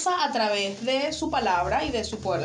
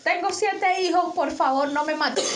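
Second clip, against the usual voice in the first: slightly raised, hammed-up begging; mock pleading; 4 semitones higher than usual. Hostage begging the bank robber to spare her, mock pleading. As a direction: play at begging for your life.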